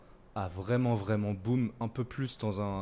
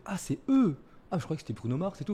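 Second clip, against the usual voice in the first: surprised; 7 semitones higher, 4 dB louder than usual. Retold or imitated. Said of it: "On a fait".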